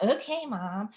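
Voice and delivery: mock eye-rolling teen okay mom with a rising sulk; bratty attitude. Shown as a demonstration. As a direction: say it like a put-upon preteen. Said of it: "otherwise it's gonna come out".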